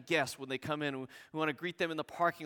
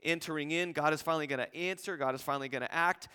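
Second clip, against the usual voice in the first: mounting enthusiasm. Retold or imitated. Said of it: "you can just see his mounting enthusiasm".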